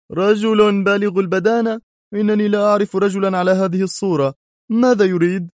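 uneasy about a stranger; surprised and worried. Acted. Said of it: "في مزيج من الدهشة والقلق".

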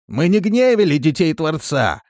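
high, loud denial; protesting. A narrator's reading. Villager in the cellar denying any guilt, loud protest. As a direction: shout your innocence from below.

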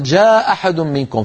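"جاء أحد منكم" as jā aḥad, one glottal stop only; single hamza. Shown as a demonstration. Teacher showing a tribal reading, "جاء أحد" with one hamza. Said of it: "فاكتفوا بهمزة".

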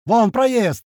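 high, excited cry; joyful yell. A narrator's reading. Narrator spotting the passage, joyful yell. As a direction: call out the discovery high and eager. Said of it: "обрадованно заорал я".

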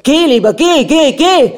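a furious prince shouting his wife out of the room. A narrator's reading. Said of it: "schrie der Fürst".

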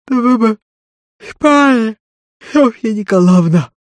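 Марфа сердито шикает на барышню, повыше; ворчливая деревенская баба, сердито; сердитый шёпот. A narrator's reading. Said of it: "сердитым шёпотом сказала она". (служанка сердито унимает барышню)

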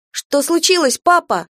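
high, loud alarmed call. Acted. Girl calls after father running ahead, loud and high. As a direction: shout after him as he runs. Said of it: "крикнула я".

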